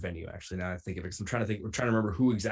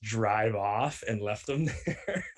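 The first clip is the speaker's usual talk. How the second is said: laughing; slower than usual. Real, not acted. Laughs telling prank punchline.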